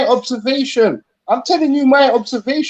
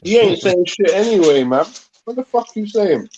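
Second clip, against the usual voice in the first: talking through a mouthful; words round a bite of ice cream; mouth full; 3 semitones lower than usual. Real, not acted. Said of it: "take the ice cream out your mouth".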